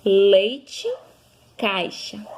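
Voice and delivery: leite said loud and rising; emphatic example word. Shown as a demonstration. Teacher to pupils, loud emphatic example word.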